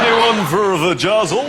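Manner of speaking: Roger Moore impression. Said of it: "Like Roger Moore".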